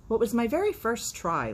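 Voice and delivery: high, loud little chick; defensive chick. Acted. Little Peep excusing himself to the cock, high and eager. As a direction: plead your first try.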